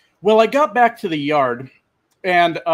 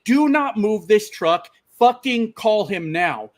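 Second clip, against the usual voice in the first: slow, higher-pitched, emphatic command; retold angry order; 5 semitones higher, slower than usual. Trucker ordering driver to stay put, retold angry demand. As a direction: imitate someone giving orders word by word. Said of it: "starts yelling".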